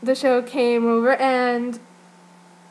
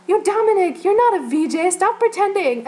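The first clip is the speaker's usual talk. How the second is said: higher, louder teasing call across the room; retold shout across room; 8 semitones higher, 5 dB louder than usual. Dancer teasing Dominic across the room, retold loud shout. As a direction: yell it across the room to tease a friend. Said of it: "shouts over there".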